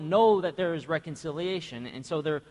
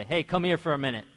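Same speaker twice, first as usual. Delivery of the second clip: mom's summoning tone; 4 dB louder, faster than usual. Retold or imitated. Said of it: "you hear that tone".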